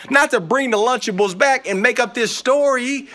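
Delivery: a lightly voiced father, building to a scold; hint of a stern dad. Father scolds David for bringing food back, rising exasperation.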